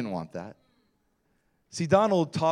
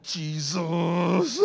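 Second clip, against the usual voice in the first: alarmed plea. Retold or imitated. Frightened driver calls on Jesus.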